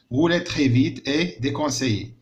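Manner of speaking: slow reading aloud. Shown as a demonstration. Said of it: "أنك ت-، تسوق بسرعة كبيرة غير منصوح به".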